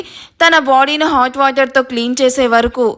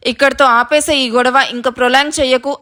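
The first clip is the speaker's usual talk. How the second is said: firm motherly reprimand; controlled, no-nonsense telling-off; serious. Acted. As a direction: put an end to the quarrel sternly. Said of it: "సీరియస్గా చూస్తూ చెప్తున్న రాగిణి".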